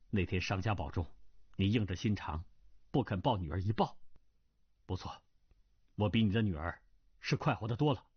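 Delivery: low, bitter reproach, lightly voiced; a hint of a young man's scorn, held down low; bitter young swordsman. Hu Fei bitterly reproaching his mother's killer, lightly voiced.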